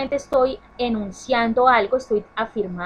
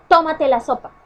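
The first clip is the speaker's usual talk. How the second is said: higher, louder mock order from mom; mom's order; 6 semitones higher, 7 dB louder than usual. Shown as a demonstration. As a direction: bark it out like a mother telling off her child. Mother giving an order, example.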